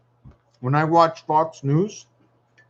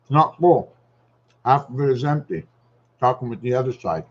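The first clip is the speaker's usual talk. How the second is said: talking with a mouthful of yogurt; talking while chewing; mouth full; 2 semitones lower than usual. Real, not acted. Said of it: "Don't talk with your mouth full".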